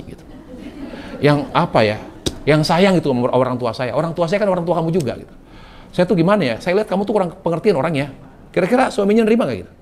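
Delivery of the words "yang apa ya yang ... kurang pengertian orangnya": blunt complaining. Retold or imitated. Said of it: "Ya nggak gitu juga cara ngomongnya".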